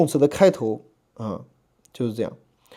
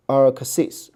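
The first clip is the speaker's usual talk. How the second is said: "arxis" drawn out, weight on the back syllable; slow "arxis", stressed at the back; stress toward the end. Shown as a demonstration. Teacher showing an accent example, back syllable stressed in "arxis". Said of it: "放在后面".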